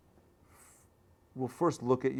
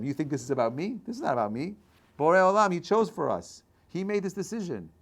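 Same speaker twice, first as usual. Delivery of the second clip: louder, rising declaration; forceful retort; 6 semitones higher, 5 dB louder than usual. Acted. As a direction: throw it back at them. Moses throws it back.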